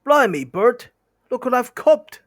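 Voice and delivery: high, loud rough troll crowing to his mate; a gleeful troll showing off his catch. Acted. Troll William calls out.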